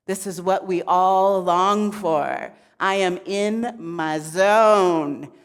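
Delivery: drawn-out, contented zen voice; blissed-out zen god. Acted. Shiva basking in his zone, blissed-out. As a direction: savour it slowly, blissed out. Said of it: "blissed out in his zen".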